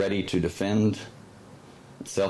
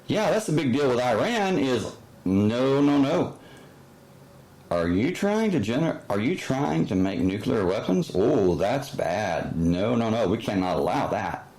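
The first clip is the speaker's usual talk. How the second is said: sarcastic mock outrage; 3 semitones higher than usual. Mock voicing of official stance.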